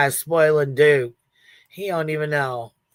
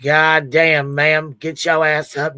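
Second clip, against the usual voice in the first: loud retold scolding of the stranger; 6 dB louder, slower than usual. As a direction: bark it like a startled scold. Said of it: "I was like".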